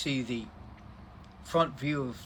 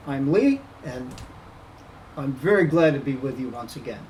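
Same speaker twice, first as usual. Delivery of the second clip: muffled behind a cloth mask; talking through a face mask; 6 dB louder than usual. Real, not acted. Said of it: "forgive the mask and the hat".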